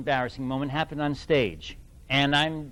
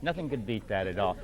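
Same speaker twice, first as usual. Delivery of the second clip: softer, lower afterthought; quiet repeat; 8 semitones lower, 7 dB quieter than usual. Real, not acted. Quieter repeat of same line.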